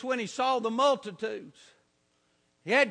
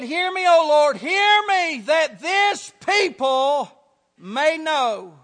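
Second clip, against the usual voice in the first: loud prayer; 5 dB louder, slower than usual. Acted. Preacher calling the prayer out to the congregation, loud. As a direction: cry it out to the Lord, louder.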